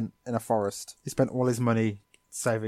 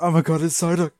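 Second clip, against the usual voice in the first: mock excitement; 5 semitones higher, 6 dB louder than usual. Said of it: "she's like".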